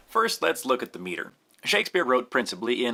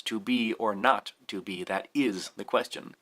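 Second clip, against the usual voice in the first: "is" picked out in "that is the question"; quoted verse with the weight landing on "is"; stress on IS; 3 semitones lower, 3 dB quieter than usual. Shown as a demonstration. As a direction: lean on "is", letting the other words go. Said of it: "the next stressed item is".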